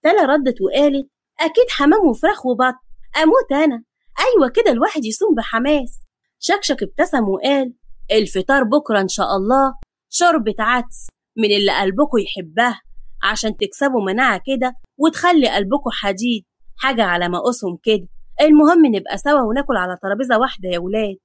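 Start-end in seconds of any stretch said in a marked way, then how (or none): 1.4-6.0 eager. Acted. Young woman excited about feast. 8.1-21.2 put-on old patriarch, slightly lower and matter-of-fact; a hint of teasing grandpa; lightly voiced grandfather. Grandfather announces modest menu.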